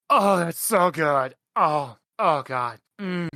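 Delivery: relishing a delicious mouthful; savouring a treat. Acted. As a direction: moan with pleasure over the food. Character relishes eating a curse.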